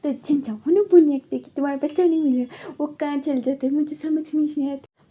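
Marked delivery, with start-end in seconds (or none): 1.5-5.0 angry. Retold or imitated. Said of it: "उन्हें भी उसके ऊपर गुस्सा आ रहा था".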